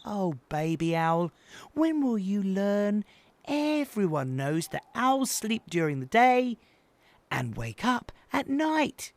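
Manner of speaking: exasperated big brother, pitched high; tutting. A narrator's reading. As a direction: lecture the little one with weary patience. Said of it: "shook his head slowly and tutted".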